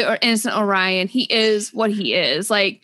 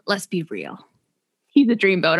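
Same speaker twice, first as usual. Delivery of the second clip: lowered, dreamy mock swoon; mock swoony; 3 semitones lower than usual. Friend mocking her notes in a swoony voice. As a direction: sigh it out like a lovestruck fan. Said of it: "she's like".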